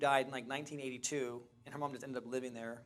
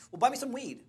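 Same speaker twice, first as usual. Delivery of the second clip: put-on begging young woman; 9 semitones higher, 6 dB louder than usual.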